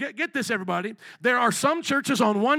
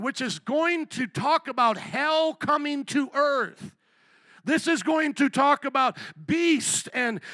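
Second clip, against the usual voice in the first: raised, drawn-out preacher delivery; forceful preaching; 3 semitones higher than usual. Acted. Preacher warning congregation of hell coming to earth, forceful preaching. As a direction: build it slowly, stretching the key words.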